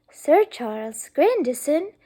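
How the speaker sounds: slow, rising, incredulous; drawn out in disbelief; astonished repeat. Acted. Isabella repeats the title, astonished.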